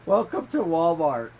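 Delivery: playful imitation of a drawn-out greeting; imitating son's silly noises. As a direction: announce it loudly like a goofy kid, drawn out. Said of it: "his weird noises that he makes".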